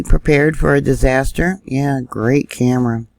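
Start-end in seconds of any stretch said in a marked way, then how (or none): 1.6-3.1 sarcastic. Real, not acted. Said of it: "I'm being sarcastic".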